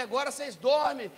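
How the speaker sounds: high, loud acted order; exasperated dad voice; scolding father. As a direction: lay down the law to the kids. Angry father orders sons, retold.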